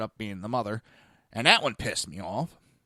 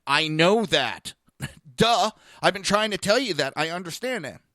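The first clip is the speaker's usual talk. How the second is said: high, louder, mock-exasperated comeback; exasperated retort; 6 semitones higher, 5 dB louder than usual. Retold exasperated retort to worker.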